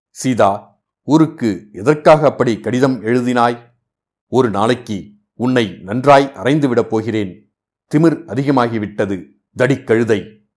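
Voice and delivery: a hint of a fuming husband; mild scolding snarl; hissing angry. Husband scolding his wife, mildly angry hiss. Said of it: "சீரும் குரலில் கூறினான்".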